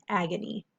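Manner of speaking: "agony" at normal speed with a schwa, ag-uh-nee; quick schwa pronunciation. Shown as a demonstration. Teacher repeating "agony" naturally for students. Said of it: "we hear the schwa sound".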